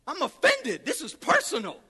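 indignant, pitch jumping on key words; offended. Acted. David answering the giant's insult to his father, offended. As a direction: take it as a personal insult. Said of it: "He was offended because of this giant".

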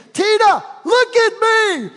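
high, loud proud call; calling out to Tina. Retold or imitated. Calling to his wife ahead, loud and proud. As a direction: shout it to her across the steps. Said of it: "I said".

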